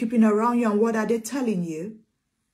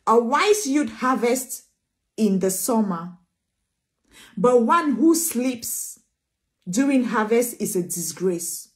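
slow scripture reading; 2 semitones lower, slower than usual. Acted. Reads scripture slowly.

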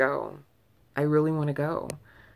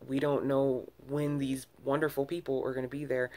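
exasperated rant. Retold or imitated. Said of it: "And I'm like".

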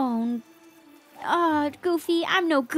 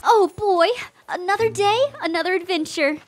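lightly voiced chipper cartoon mouse; playful mouse impression, rising at the end; Mickey Mouse; 5 semitones higher than usual. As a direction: play a perky cartoon hero. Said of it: "Give your best Mickey".

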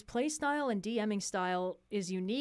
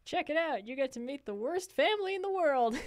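higher-pitched character sales pitch; in-character advert; 5 semitones higher than usual. Acted. Podcaster advertising the show in character, playful higher voice. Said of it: "advertise rolling with difficulty in character".

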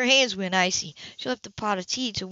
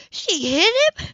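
much higher and louder, nearly crying out; stunned disbelief; 12 semitones higher, 9 dB louder, slower than usual. Acted. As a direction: horror breaking through the question. Shocked woman repeats question.

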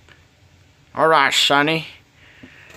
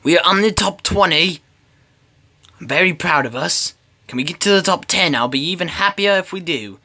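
lightly put-on Australian accent; a hint of Australian; 3 semitones higher than usual. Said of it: "I don't know why I went Australian".

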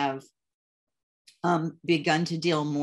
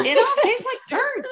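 much higher, laughing through the words; laughing complaint; 5 dB louder than usual. Retold or imitated. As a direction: laugh it out as a mock whine. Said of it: "Remember me telling you".

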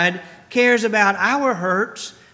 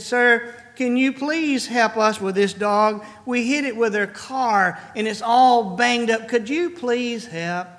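pleading; 3 semitones higher than usual. Retold or imitated. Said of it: "they pleaded".

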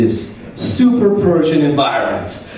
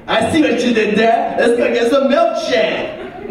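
white friend done as a black voice; 5 semitones higher than usual. Retold or imitated. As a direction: lean into the double meaning. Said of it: "this white voice as a black voice".

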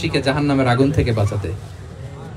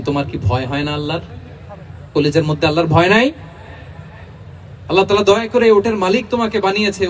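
angry rebuke. Retold or imitated. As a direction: scold the camel's owner, peaking on "খবরদার". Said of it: "বিশ্বনবী রেগে বললেন". (উটের মালিককে রেগে ধমক দেওয়ার অভিনয়)

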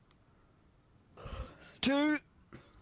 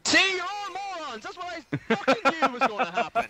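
exasperated; 9 semitones higher, 4 dB louder than usual. Real, not acted. Yelling at teammates.

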